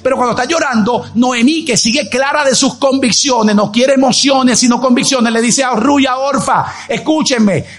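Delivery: high-pitched emphatic sermon voice; impassioned preaching. Acted. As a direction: preach it with rising conviction.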